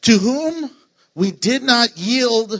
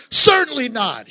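yelled; 4 semitones higher, 5 dB louder than usual. Retold or imitated. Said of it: "he yells it".

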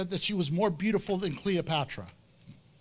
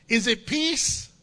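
drawn-out, coy "Is it peace?" with a rising end; slow queenly question; 3 semitones higher, slower than usual. Acted. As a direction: ask "Is it peace?" slowly, sweetly, to disarm him. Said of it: "she said".

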